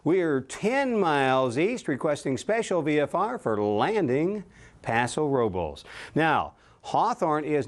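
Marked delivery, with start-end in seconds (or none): 0.0-5.8 pilot's voice. Shown as a demonstration. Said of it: "you'll use your pilot's voice here".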